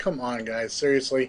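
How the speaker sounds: ordinary talk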